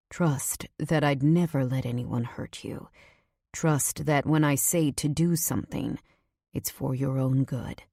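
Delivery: a hint of an insistent man; lightly voiced man asking for trust; lightly voiced earnest Nico.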